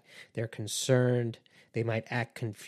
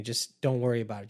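calm brush-off, slightly raised; mild dismissive; faster than usual. Retold or imitated. Manipulator brushing off the complainer, casually dismissive. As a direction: wave it away casually.

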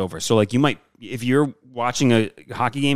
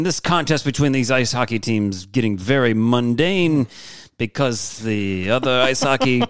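put-on old radio announcer; slower than usual. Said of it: "your old-timey radio voice".

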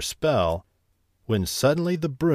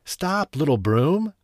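high, loud cry to stop; panicked shout; 6 semitones higher, 3 dB louder than usual. Acted. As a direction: yell at the runaway broom. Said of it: "he shouted".

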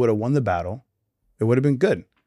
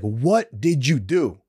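mock reproach; 2 semitones higher, much slower than usual. Samuel confronts Saul in retelling.

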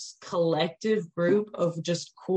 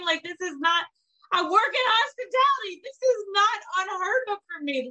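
exasperated rant; 13 semitones higher than usual. Real, not acted. Venting to listeners about her anxiety, pitched-up exasperation. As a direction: voice climbing in exasperated disbelief.

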